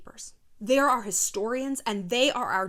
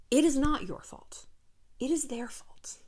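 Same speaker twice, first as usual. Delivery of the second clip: whispered emphasis; 4 dB quieter than usual. Real, not acted. Host whispering to listeners that it's their fault. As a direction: drop to a whisper on the blame.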